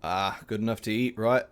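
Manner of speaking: casual Cockney character voice; Cockney lilt on an aside; Cockney accent. Acted. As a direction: play it as a chummy Cockney. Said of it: "I'm doing a Cockney accent".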